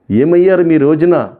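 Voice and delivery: a high, slow, pleading cry to the gods; retold tearful plea. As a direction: plead with the gods as if close to tears, half-retold. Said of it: "ఎంతగానో ఏడుస్తూనే ఉన్నాను". (దేవుళ్ళను వేడుకుంటూ కొంచెం ఏడుపుగా)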